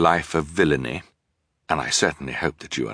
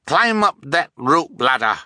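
high urgent call up the ladder; crying out; 10 semitones higher, 4 dB louder than usual. Acted. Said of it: "Fiona cried".

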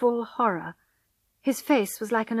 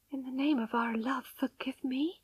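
soft, pleading whisper, slightly raised; dry-mouthed whisper; 4 semitones higher, 7 dB quieter than usual. A narrator's reading. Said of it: "she whispered with a dry mouth".

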